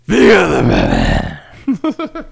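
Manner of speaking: squeaky high other Batman; high silly Batman. Retold or imitated.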